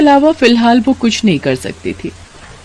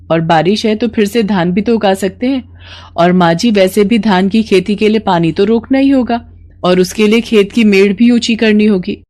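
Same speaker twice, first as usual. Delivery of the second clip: convince her mother-in-law; determined young bahu; 3 semitones higher than usual. Acted. Mala determined. (दृढ़ निश्चयी बहू)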